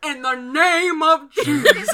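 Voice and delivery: loud, high, drawn-out command; mock exorcist invocation. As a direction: stretch it out dramatically, dissolving into laughter.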